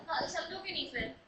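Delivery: ordinary talk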